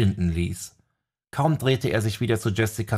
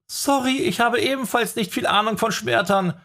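shouted; 13 semitones higher than usual. A narrator's reading. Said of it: "schrie sie".

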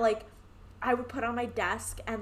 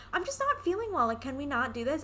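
much higher whiny plea to the teacher; whiny excuse; 4 semitones higher than usual. Retold or imitated. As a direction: beg out of gym class. Teen pleading to gym teacher.

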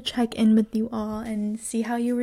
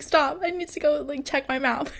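higher-pitched, flustered brush-off; hurried protest in a raised pitch, half-joking; retold panicky urgency; 4 semitones higher than usual. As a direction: act out mildly panicked pleading with mom.

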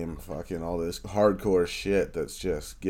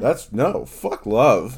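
outraged; 5 semitones higher, 9 dB louder, much slower than usual. Real, not acted. Indignant rant about betrayal.

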